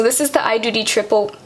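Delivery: real quick, habitual pace; talking fast. Real, not acted. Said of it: "see, I'm talking fast".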